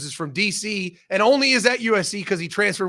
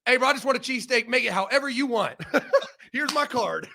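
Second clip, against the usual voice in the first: mock timid; 5 semitones higher than usual. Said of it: "I'm a little scared now".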